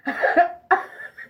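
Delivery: breathy, voiceless burst of laughter; helpless wheezy laugh; real laugh. Real, not acted. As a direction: crack up at your own story. Laughs at her own story.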